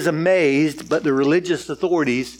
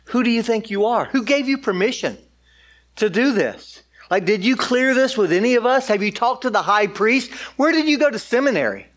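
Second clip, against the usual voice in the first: higher-pitched, mildly indignant questioning; indignant challenge; 5 semitones higher than usual. Acted. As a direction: challenge him like affronted religious officials. Acts out leaders challenging Jesus' authority.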